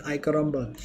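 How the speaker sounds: the catchphrase tossed off in a mock Arab accent. Crew on the ship joking around, in a light Arab accent. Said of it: "usually in an Arab accent".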